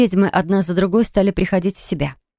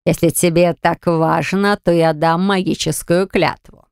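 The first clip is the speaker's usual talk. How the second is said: slow, menacing dark spirit; a hint of a sinister demon; dark entity voice; slower than usual. Darkness entity speaking slowly.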